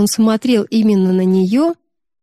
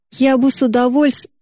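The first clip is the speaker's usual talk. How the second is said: cry for help; 7 semitones higher than usual. Acted. Sister drowning cries for help.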